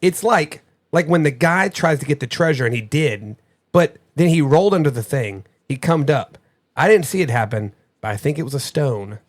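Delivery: lightly voiced child reading a clue; imitating child's reading. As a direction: read it the way the kid said it. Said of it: "read this exactly the way that she said it".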